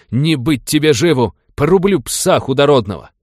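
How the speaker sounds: furious battle cry. A narrator's reading. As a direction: scream the threat, blade drawn. Noble draws sabre, threatens.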